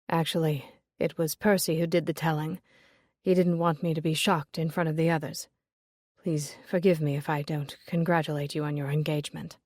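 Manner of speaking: a hint of a dejected suitor; Julius, resigned. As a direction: say it as a man out of options. Julius voiced lower.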